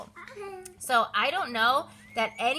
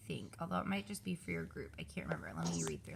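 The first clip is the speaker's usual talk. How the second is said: whisper; 12 semitones lower, 13 dB quieter, faster than usual. Real, not acted.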